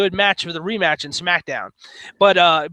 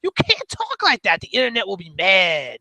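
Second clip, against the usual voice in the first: alarmed scolding. Retold or imitated. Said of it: "And I'm like".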